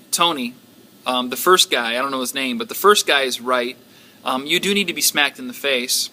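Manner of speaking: lightly voiced, even and gentle; a hint of a patient teacher easing a worry; calm second man. Second kung fu man calmly reassuring Tony, gentle. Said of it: "this guy was a little more calm".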